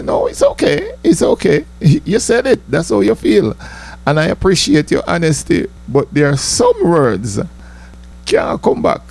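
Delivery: high, mock-polite let-down; mock gracious reply. Comic telling his girlfriend the words can't come back, high and mock-polite.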